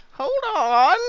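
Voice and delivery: high yelled call to halt; dwarf yelling. Acted. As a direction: shout a halt like a gate guard. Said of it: "that dwarf back there go, yells".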